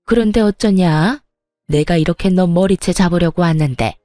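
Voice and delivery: put-on a mild, simmering angry old woman; fuming mother-in-law. Mother-in-law scolding her pregnant daughter-in-law, mildly fuming. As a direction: needle her with bitter sarcasm. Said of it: "노려보며 씩씩거리고 있는 시모".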